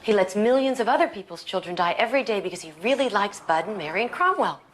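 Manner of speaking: mildly scornful, lively pitch; a touch of sarcasm at a parent's faith; insolent tone. Acted. Daughter challenging her parent's trust in God, insolent. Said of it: "Don't take that tone with me".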